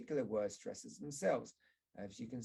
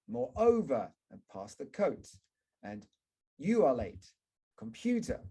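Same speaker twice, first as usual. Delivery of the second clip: exaggerated stress drill; stress examples; 2 semitones higher, 6 dB louder than usual. Shown as a demonstration. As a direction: hit the stressed syllables hard. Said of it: "get students to find out their own examples".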